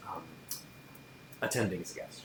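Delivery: usual speaking voice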